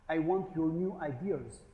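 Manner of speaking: slow, hammed-up French accent; a deliberately clumsy French accent; bad French accent. French CEO asking staff for new ideas, bad French accent. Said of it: "That's a very bad French accent".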